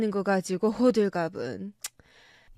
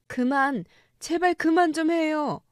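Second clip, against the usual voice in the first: higher, pleading cry to stop; mother begging father and son to stop, higher; 4 semitones higher than usual. Acted. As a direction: beg them to stop, pitch raised.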